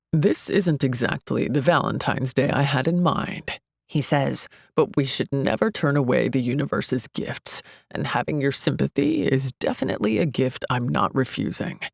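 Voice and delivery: a hint of a smooth, shrugging charmer; lightly voiced self-help guru, unbothered; lightly voiced smug Ian. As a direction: brush it off with easy charm.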